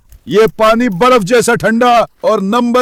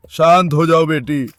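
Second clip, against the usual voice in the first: soothing; 5 semitones lower than usual. Real, not acted. Owner soothes barking dog.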